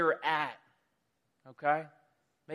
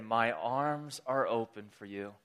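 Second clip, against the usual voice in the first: tender reassurance; 7 semitones lower than usual. Acted. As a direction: reassure them gently, in a low voice. God tenderly calls his people back.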